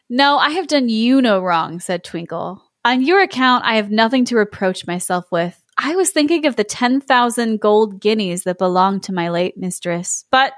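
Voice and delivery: measured storybook voice, feigned regret turning to coaxing; lightly voiced sly Twinkle. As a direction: lightly play a cat dangling a tempting offer.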